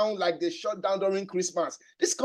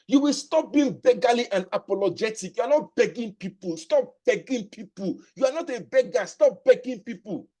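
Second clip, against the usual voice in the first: rising passion, punched words; passionate. Real, not acted. Sales trainer urging recruits to stop begging, passionate. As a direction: preach it with growing fire. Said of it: "You can see I'm getting passionate now".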